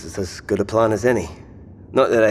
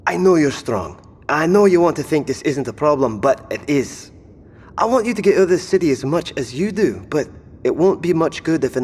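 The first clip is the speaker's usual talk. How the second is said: urgent pleading; 6 semitones higher, 4 dB louder than usual. Acted. Jones pleads with injured Sharon.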